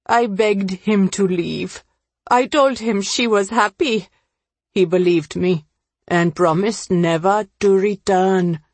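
troubled confessor, rising at moments; understated agitation as the confession comes out; lightly voiced Ravi. Ravi continues his confession.

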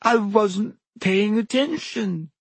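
high, slow, theatrical wail; milk it tragically, high and drawn out; dramatic. A narrator's reading. Myrtle answers Harry's question, dramatic high wail. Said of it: "said Myrtle dramatically".

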